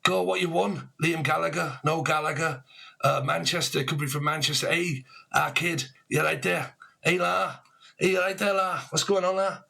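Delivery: a cheeky Manchester lad calling out; mock Manchester greeting; Manc accent. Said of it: "talk a bit like that".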